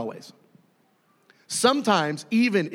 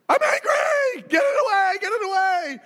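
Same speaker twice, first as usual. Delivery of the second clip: hammed-up terrified scream. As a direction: shriek as if fleeing a murderer. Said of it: "scream in terror".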